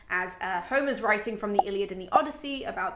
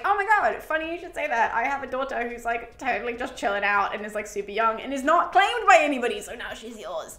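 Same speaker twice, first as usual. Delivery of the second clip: gushing Zeus. Retold or imitated. Zeus answers gushing, excited.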